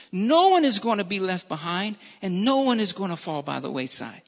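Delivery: low, reassuring promise; compassion. Acted. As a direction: let the voice sink into a gentle assurance. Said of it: "lead them in compassion".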